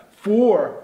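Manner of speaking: "for" stressed hard and drawn out; stressed syllable. Shown as a demonstration. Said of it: "a palavra com a força". ("for" com força, sílaba tônica)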